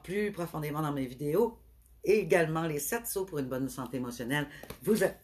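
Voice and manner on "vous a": hiccuping mid-word; suppressing hiccups. Real, not acted. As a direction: cut off by a hiccup. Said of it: "pardon, j'ai le hoquet maintenant".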